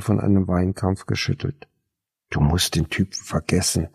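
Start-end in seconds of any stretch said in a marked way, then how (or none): 2.3-3.9 lower, calming voice; reassuring. A narrator's reading. Anne calming Clara about the dead boyfriend, soothing. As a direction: settle her down gently. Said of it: "suchte sie Anne zu beruhigen".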